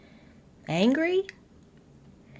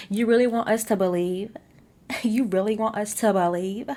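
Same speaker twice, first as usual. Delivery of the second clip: incredulous; 4 semitones higher, 5 dB louder than usual. Real, not acted. Mocking the husband's excuse.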